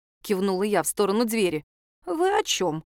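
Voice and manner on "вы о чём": high, indignant church lady; изумлённо. A narrator's reading. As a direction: play her shocked and offended. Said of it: "она вытаращила на меня глаза". (возмущённая служительница, высоко)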